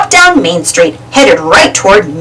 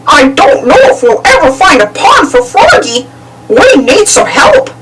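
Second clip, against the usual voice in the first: sighing; 5 semitones higher than usual. A narrator's reading. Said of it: "Goofy sighed".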